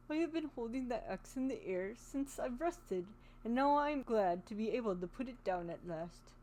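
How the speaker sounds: lightly voiced tin man, relieved; a hint of a grateful metal man; Tin Woodman voice.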